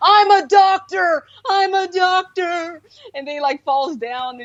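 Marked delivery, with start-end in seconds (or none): 0.0-2.8 mock very slow, high, stretched-out screaming. Retelling a movie scene where a character rips open a trash bag: imitating someone screaming. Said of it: "he's screaming".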